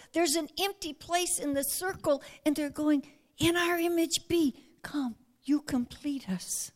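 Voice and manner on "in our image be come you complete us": tender invitation. Retold or imitated. Trinity voiced inviting believer.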